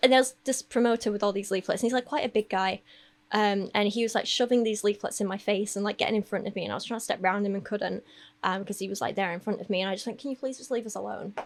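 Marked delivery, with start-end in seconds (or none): 10.2-11.3 polite tone, much quieter. Retelling the words said to a promoter shoving leaflets in the speaker's face, a polite request. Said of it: "I politely asked you to leave me alone".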